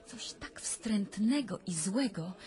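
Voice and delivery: slow, hushed whisper of dread; slow fearful whisper; frightened whisper. Acted. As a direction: whisper it as if the thing could hear. Recounting a terrifying nightmare.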